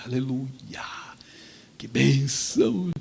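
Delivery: soft breathy whisper, then slowing; relieved whisper. Retold or imitated. Boy thanking heaven, whispering with slow relief. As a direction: whisper it like a grateful secret.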